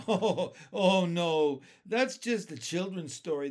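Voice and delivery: loud, high chuckling "oh no"; amused dismissal. A narrator's reading. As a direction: laugh it off as a children's tale. Ladybug laughs off the question.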